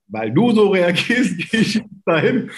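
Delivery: mock a stubborn teenager throwing it back at dad; defiant teen. Defiant teen quote, laughing.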